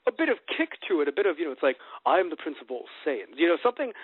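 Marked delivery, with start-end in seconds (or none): 2.1-3.4 lightly voiced regal prince; regal Vegeta. Showing co-host the preferred Vegeta, lightly regal. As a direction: give it a touch of royal self-importance. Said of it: "sound a bit more regal".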